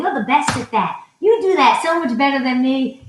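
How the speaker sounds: butter him up with praise; gushing praise. Retold or imitated. Reenacting her praise of him.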